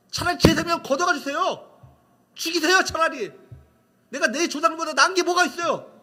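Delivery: loud, high-pitched arguing with God; acted indignant protest. Elijah demanding God take his life, loud aggrieved protest. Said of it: "왜 따지고 항변하지 않".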